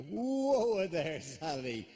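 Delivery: playful whoa-there warning; mock warning. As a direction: pull her up short, half joking. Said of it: "this is a point where I go".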